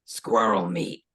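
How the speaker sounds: low, slow deadpan answer; deadpan vendor. Retold or imitated. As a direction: say it flat and low without a thought.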